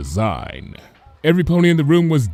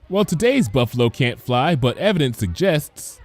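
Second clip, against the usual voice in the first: higher, bright schoolteacher voice; lightly voiced patient teacher; cheerful teacher; 3 semitones higher than usual. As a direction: explain it kindly to a class of foals. Teacher answers.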